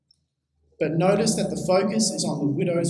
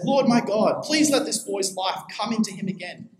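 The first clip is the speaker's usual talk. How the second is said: raised plea to God, easing off; crying out in prayer; 4 semitones higher than usual. Retold or imitated. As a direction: mildly cry out to God, then settle. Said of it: "He cried out to the Lord".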